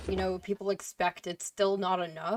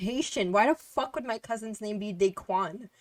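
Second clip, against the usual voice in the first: indignant retort; 3 semitones higher than usual. Retold or imitated. Retelling her outraged answer to the boyfriend's stereotype question. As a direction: tell him off in disbelief.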